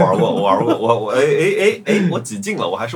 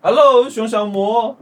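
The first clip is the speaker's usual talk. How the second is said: calling out; 8 semitones higher, 4 dB louder, much slower than usual. Real, not acted. Calling to a lagging guest.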